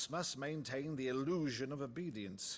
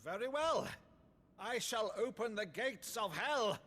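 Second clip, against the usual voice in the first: theatrical sorcerer; 4 semitones higher than usual. Acted. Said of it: "Bravo, Uncle".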